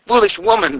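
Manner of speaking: high, loud eerie ghost moan; ghostly moan. A narrator's reading. The ghost scolding the greedy queen, moaning eerily. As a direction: wail it like a vengeful spirit. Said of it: "the man moaned".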